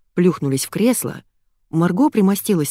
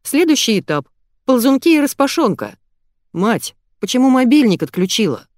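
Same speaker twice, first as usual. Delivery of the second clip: scolding son; 6 semitones higher, 4 dB louder than usual. Acted.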